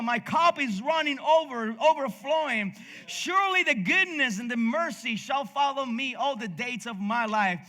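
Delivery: scripture recitation. Acted. Preacher reading the psalm to the congregation, solemn recitation. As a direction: lift the words up like a prayer read aloud.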